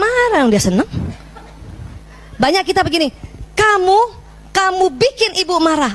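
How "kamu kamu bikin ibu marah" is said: wrong, blaming way. Shown as a demonstration. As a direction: blame the child for your anger. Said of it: "itu, itu yang keliru".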